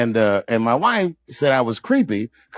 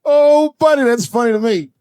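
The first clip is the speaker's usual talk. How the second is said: amused; 10 semitones higher, 5 dB louder than usual. Real, not acted. Laughing at own joke.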